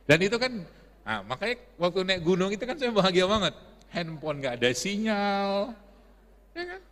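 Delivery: high, loud and laughing, then slowing down; bubbling over at the memory of no signal; excited laughing recall. Real, not acted. Preacher gushing to the audience about the mountain, high and laughing.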